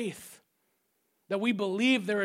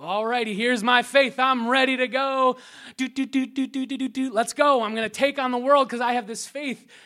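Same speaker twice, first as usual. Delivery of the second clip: loud eager hype; pumped-up bravado; 2 semitones higher, 7 dB louder than usual. Retold or imitated. Believer after instant faith boost, loud pumped-up hype. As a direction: charge in, ready for anything. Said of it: "like Mario eating a mushroom".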